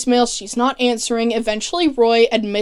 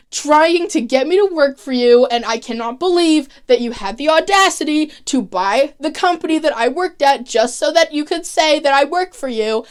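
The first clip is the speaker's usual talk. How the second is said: angry rant; 3 semitones higher than usual. Retold or imitated. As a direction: tell him off, half-acted fury. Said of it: "and she's angry".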